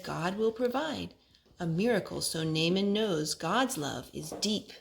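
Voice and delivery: rhythmic rhyming read-aloud; reading to children. Acted. Parent reading a rhyming Bible book to her son. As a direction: read the rhyme to a small child.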